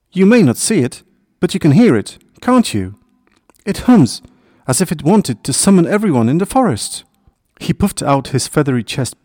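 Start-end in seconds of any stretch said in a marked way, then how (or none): 0.1-7.0 high, proud little bird; confident thin-voiced sparrow. A narrator's reading. Sparrow explains the humming stream to hedgehog, confident thin voice. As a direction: pipe up with high-pitched assurance. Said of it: "unusual confidence for his thin voice".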